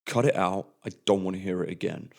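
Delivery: a touch of a stern referee, firm not shouting; stern telling-off. Retold or imitated. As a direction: mildly scold the young player. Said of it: "And I say it very loudly".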